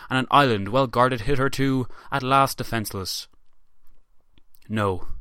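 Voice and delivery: lightly voiced Churchill, grave and measured; a hint of old Churchill orating, slowing on the big words; understated wartime statesman's oratory; Churchill impression. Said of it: "so I'll do my best impression".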